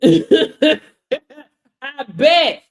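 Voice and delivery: loud laughing "I bet". Real, not acted. Teasing viewers about their app bullying, loud laughing. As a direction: burst out laughing on it.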